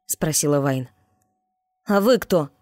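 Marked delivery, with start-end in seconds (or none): 1.9-2.5 a touch of defiance, pitched up; snapping back. A narrator's reading. Boy snaps back at the strangers, mildly defiant. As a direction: throw the question back at them. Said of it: "огрызнулся он".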